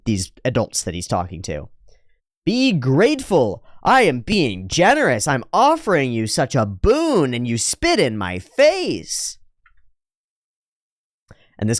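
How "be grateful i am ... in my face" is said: arrogant noble. Acted. Voicing arrogant lecture to the men.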